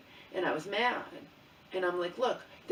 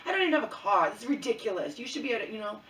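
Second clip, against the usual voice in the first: higher and louder, retold outrage at the phone company; exasperated protest; 4 semitones higher, 6 dB louder, faster than usual. Daughter retelling arguing with the phone rep, loud exasperation. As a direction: pitch it up in frustrated disbelief. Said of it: "And I'm like".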